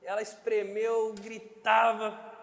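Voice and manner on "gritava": mock scream. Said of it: "Gritava não".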